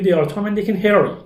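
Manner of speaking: Harry at the end with a falling tune, the words run together slowly; native-style connected speech; linked native speech. Shown as a demonstration. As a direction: join the words into one flowing chain. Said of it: "میگه".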